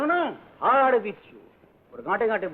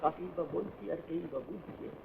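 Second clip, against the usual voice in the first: very soft, slow mutter. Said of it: "আবার কি বিড়বিড় করছিস?".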